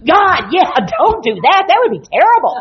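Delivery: animated. Retold or imitated. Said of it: "I'm very animated".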